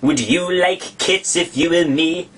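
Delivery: slow, high offended mouse; shrill, passionate. Acted. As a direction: demand it, deeply affronted. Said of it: "in a shrill, passionate voice".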